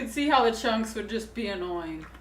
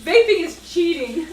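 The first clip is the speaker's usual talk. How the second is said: boss's voice; 5 semitones higher, 7 dB louder than usual. Retold or imitated. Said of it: "he said".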